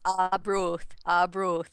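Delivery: "Arbroath" drawn out in the local Fife way; local Fife pronunciation. Shown as a demonstration. Correcting a friend on the town's name, "Arbroath" in local Fife pronunciation. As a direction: say "Arbroath" slowly, as a Fifer would. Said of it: "you have to say it properly".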